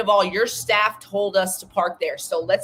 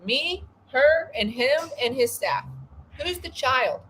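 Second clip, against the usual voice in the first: raised pitch, incredulous indignation; indignant; 5 semitones higher than usual. Real, not acted. To listeners about the manager's lecture, raised incredulous indignation.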